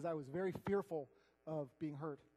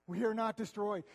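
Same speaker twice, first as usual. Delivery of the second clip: loud proclamation; 4 semitones higher, 7 dB louder than usual. Shown as a demonstration.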